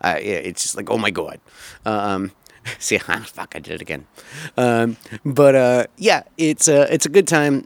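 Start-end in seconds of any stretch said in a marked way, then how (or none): 0.9-1.4 New York accent. Shown as a demonstration. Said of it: "my New York accent".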